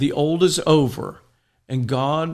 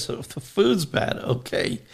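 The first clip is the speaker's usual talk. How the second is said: "So the food's bad" pitched higher, then a breathy "Okay"; incredulous Monsignor; 4 semitones higher than usual. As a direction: lift the voice in mock disbelief on "food's bad". Monsignor answers the monk.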